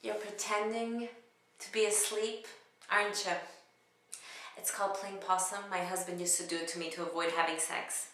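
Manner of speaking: lightly played nosy seatmate; a hint of comic prodding, at a contained volume; comedic monologue. Passenger to a seatmate playing possum, lightly acted prodding. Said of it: "it was a comedic monologue".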